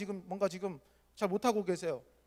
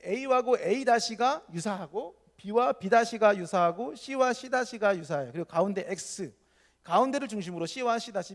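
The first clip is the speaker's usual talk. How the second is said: very slow, spelled out; slow explaining; 3 semitones higher, 5 dB louder, slower than usual. Shown as a demonstration. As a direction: lay each pair out slowly. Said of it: "설명하며 천천히 강조". (아주 천천히 또박또박 설명)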